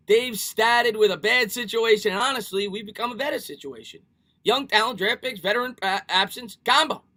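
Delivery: hammed-up Boston accent, emphatic; Dave Gettleman accent. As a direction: read it out in an exaggerated Bostonian accent. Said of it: "best attempt at a Dave Gettleman accent".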